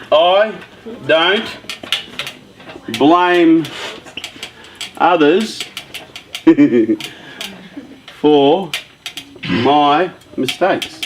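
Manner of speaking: word by word with long pauses, mistakes drawn out slowly; slow emphatic statement. Shown as a demonstration. Coach reading rule two to the group: slow, spaced emphasis. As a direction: dictate it as a slow motto. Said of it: "Number two".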